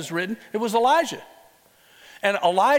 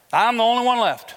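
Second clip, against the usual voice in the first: louder, pitched-up cry of despair; lightly voiced desperate prophet; despairing Elijah; 4 semitones higher, 5 dB louder than usual. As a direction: wail it like the last prophet standing.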